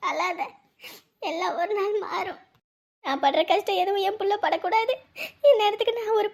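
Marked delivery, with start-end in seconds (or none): 0.1-2.4 soft consolation, falling on நாள்; soft comfort. Acted. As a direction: gently soothe her. Friend consoling crying wife.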